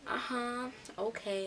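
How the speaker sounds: mock humoring "uh-huh"; disbelieving. Classmates doubting her party claim, disbelieving. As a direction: imitate someone who is not buying it. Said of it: "you can tell they don't believe me".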